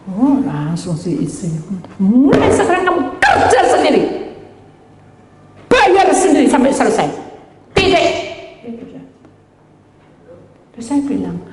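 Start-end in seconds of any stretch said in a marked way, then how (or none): 2.0-8.1 high, loud scolding ultimatum; wife laying down the law in a high, sharp voice; mock angry wife. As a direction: snap out the ultimatum like a fed-up wife. Wife's angry ultimatum acted.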